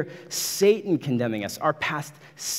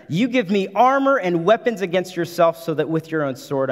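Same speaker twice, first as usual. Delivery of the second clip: loud, rising defiance hurled straight at Satan; defiant preaching; 4 semitones higher, 3 dB louder than usual. Acted. Preacher voicing Luther rebuking Satan, loud defiant preaching. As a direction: preach it full force, climbing higher with each word. Reading Luther defying the devil.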